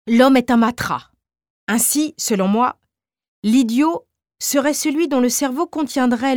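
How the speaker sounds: a hint of the obsessed chemist holding forth; lightly voiced Balthazar. Narrator voices Balthazar lecturing.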